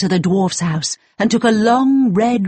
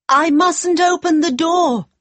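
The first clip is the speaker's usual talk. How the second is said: put-on high, worried young girl; a nervous, high girlish cry; 10 semitones higher than usual. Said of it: "she cried".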